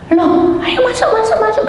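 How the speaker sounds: high, bright invitation inside; eager welcome. Retold or imitated. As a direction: usher her in with sudden delight. Relative eagerly welcomes her in. (menyambut dengan gembira bernada tinggi)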